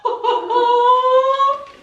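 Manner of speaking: high, laughing and near tears; laughing squeal. Real, not acted. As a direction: laugh through delight. Overwhelmed by cute gift.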